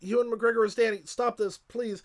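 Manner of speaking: high, strained mock plea to stop; overwhelmed pleading. Real, not acted. Pleading with co-host Art while choked up, high and strained. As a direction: beg him to stop, half laughing at your own tears. Still overcome, begging to stop.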